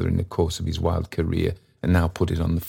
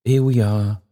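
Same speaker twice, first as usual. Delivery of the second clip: choked-up cry; 6 semitones higher, 3 dB louder than usual. Acted. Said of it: "cried Trotty, running round the room and choking audibly".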